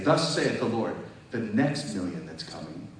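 prophet proclaiming. Retold or imitated. Preacher retelling the prophet's word to him, mock-solemn proclaiming.

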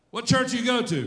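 high, loud nosy question; mock questioner. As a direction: put on a high voice to quiz someone. Acts out someone questioning him.

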